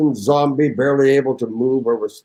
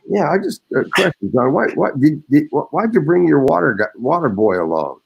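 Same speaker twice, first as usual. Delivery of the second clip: coach voice; 3 semitones higher than usual. Retold or imitated. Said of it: "he said".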